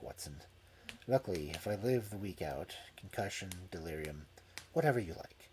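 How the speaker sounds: soft, low sickbed voice; weak injured Holmes. Acted. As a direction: give orders weakly from bed. Injured Holmes giving instructions.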